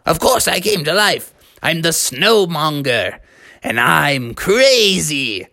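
lightly voiced crazy snowman; Snowmonger. Living snowman boasts to Froggy and dad, hammy creature voice. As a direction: boast theatrically, slowing on the last phrase. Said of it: "And he said".

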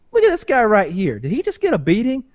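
lightly voiced old cornerman; a hint of an old boxing-gym hand; old cut guy. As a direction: size up the beaten fighter like an old cut man. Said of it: "you need that old guy".

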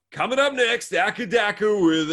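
high, punchy DJ introduction; radio announcer. Acted. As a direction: announce the next track like a radio host.

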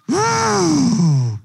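a high, loud laugh that breaks into a whoop. Real, not acted. Preacher laughing at his own story, high loud whoop. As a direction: let the laugh burst out into a woo.

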